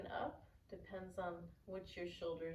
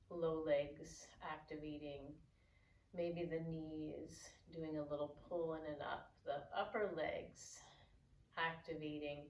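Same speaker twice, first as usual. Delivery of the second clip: guided yoga cueing. Real, not acted. Yoga teacher guiding students into mountain pose, calm guided cueing. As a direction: guide the pose gently with pauses between cues.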